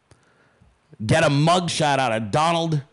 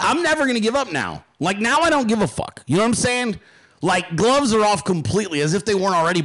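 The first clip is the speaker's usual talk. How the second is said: fired-up defiance; 5 semitones higher than usual. Real, not acted. Heated rant, defiance.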